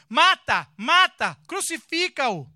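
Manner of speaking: the mob cries for crucifixion, screaming; crowd screaming. Acted.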